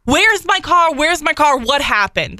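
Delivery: retold yelling. Car owner demanding where the towed car went, retold yelling. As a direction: re-enact frantic yelling without full volume. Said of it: "I'm screaming and I'm yelling".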